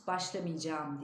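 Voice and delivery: Başlamayacağım as başlamıycam; spoken form. Shown as a demonstration. Teacher models the spoken form, başlamıycam. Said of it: "diye okuyoruz".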